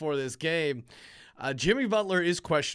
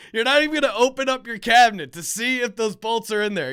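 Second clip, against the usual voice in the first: irritated retort; 7 semitones higher, 7 dB louder than usual. Retold or imitated. Retold argument at Home Depot.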